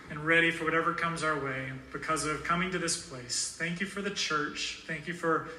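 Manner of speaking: earnest, steady prayer voice; closing prayer. Acted. Pastor praying over the congregation at close, earnest.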